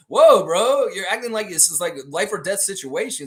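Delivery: high, loud whoa, then easing off; incredulous mock reproach. Host chiding a poster for treating it as life or death, incredulous. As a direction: call out the overreaction in a high voice. Acted retort to overreacting poster.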